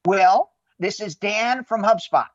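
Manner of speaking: slow, bright sales-call opener; big energy greeting. Shown as a demonstration. Salesman demoing his big-energy phone greeting, slow and deliberate. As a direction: greet him like you're glad he picked up. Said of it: "Dan with the big energy".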